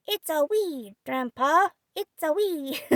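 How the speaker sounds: put-on high, loud child's triumphant shout. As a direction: shout it out proudly like a boy. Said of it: "the intelligent pupil triumphantly shouted".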